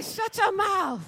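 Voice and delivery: slow, high laughing shout; playful disbelief. Shown as a demonstration. Teaching the congregation a slow, high, playful shout of disbelief. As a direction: drag it out in fun disbelief. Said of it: "You gotta say it just like that".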